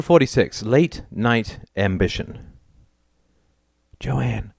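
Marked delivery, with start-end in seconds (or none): 4.0-4.5 soft, gentle call of her name; softly. A narrator's reading. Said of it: "said Alder softly".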